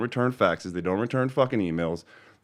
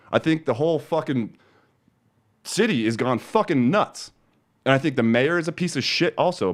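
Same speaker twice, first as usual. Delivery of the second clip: heated, higher complaint; angry rant; 3 semitones higher than usual. Real, not acted. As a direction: vent at the mayor. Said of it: "End of rant".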